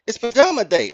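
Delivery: put-on high, girlish kid voice; lightly voiced little girl. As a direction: play the little girl, innocent. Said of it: "She's like".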